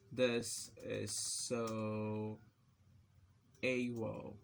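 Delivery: very slow, drawn-out words; typing-pace dictation. Real, not acted. Typing italic example text, very slow dictation. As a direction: stretch each word as you type.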